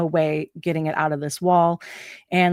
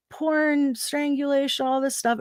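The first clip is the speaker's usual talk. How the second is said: mock outraged cry; 8 semitones higher than usual. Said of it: "people screaming".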